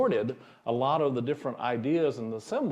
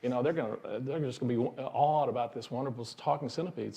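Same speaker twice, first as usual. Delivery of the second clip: excited rush; faster than usual. Retold or imitated. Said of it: "he says".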